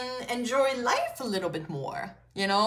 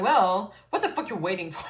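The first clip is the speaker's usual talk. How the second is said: tough love cussing. Retold or imitated. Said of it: "I'm talking like that".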